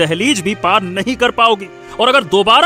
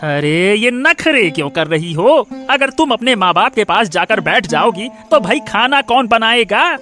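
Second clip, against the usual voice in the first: cross, accusing husband; irritated scolding. Acted. Husband to wife who wants to visit parents, scolding. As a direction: scold with rising indignation.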